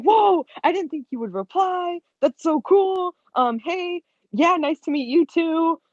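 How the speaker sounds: high-pitched gushing fan reply; not playing it cool. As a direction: imitate yourself failing to act cool, voice way up. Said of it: "guys, I didn't play it cool".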